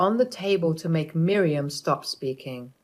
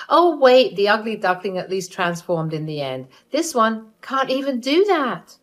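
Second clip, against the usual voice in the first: lightly voiced sneering mother; mother-in-law mocking the wife to guests. Mother insulting daughter-in-law.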